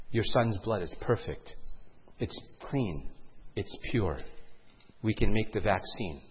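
low, soft, solemn delivery; hushed doctor. Acted. Doctor tells parent about son's blood, hushed. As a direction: break it to them very quietly.

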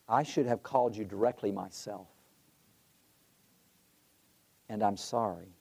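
low-key, sincere retold apology; calm regret, unhurried pause before the sorry. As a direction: apologize calmly, letting the pitch settle. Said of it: "Calm voice".

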